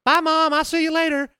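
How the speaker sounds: put-on high, chirpy little kid voice; child's voice. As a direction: voice an eight-year-old waving goodbye. Eight-year-old voiced in story.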